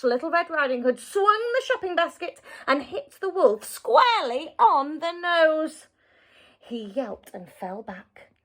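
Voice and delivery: put-on lively read-aloud voice for children; storybook narration. A narrator's reading. Narrator reading a fairy tale to children, lively storytelling. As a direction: tell the tale with wide swings for young listeners.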